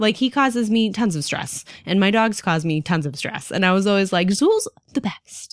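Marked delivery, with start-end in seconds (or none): 4.3-5.5 whispered praise. Retold or imitated. Owner whispering praise of her favorite cat. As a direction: whisper it like a fond secret. Quoting her past self fondly.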